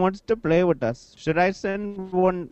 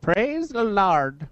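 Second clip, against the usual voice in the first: preacher voice; 3 semitones higher, much slower than usual. Pretend. Mock preacher call.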